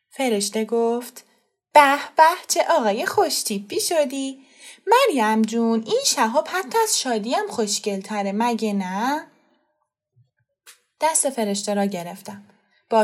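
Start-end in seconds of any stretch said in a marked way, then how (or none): 1.7-9.3 admiring. Acted. Young woman praises the boy to his mother, delighted. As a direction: gush over how handsome he looks.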